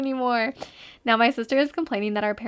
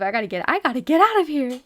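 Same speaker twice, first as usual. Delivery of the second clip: mock panic; 3 semitones higher, 5 dB louder, faster than usual. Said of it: "I'd be like".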